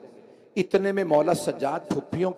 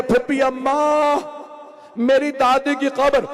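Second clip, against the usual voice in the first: higher, louder, tearful call; high grieving call; 8 semitones higher, 5 dB louder than usual. Acted. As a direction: cry it out at the graveside. Sajjad calling aunt at grave. (ऊँची आवाज़ में रोती पुकार)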